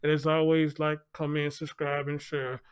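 muffled behind a mask; talking through a mask; through a face mask. Real, not acted. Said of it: "excuse the mask".

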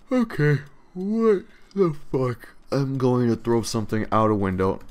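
loud, high-pitched real outburst at the yawning; exasperated. Real, not acted. Gamer fed up with his own constant yawning, exasperated. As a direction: stretch the swearing out, loud and fed up. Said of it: "it angers me a lot".

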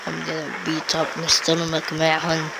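lightly put-on fighter voice; low tough-guy mumble. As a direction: mumble a mock threat, understated. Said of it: "why am I talking like this".

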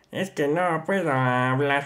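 strained, slow, voice failing; strangled voice. Acted. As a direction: squeeze the words out. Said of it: "no me sale la voz".

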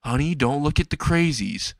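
lightly voiced mother, pitch lifted; a hint of a mom warning her child; cautioning mom. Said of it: "the mom says".

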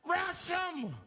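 high loud "Rush him!"; rally the bus to charge; rallying scream. Retold or imitated. Passenger urging everyone to charge the gunman, high scream. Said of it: "He screamed out".

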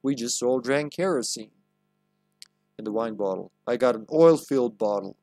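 lightly put-on American Southern accent; Southern drawl. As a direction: play it like a folksy Southern old-timer. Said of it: "why she sounds like a southerner".

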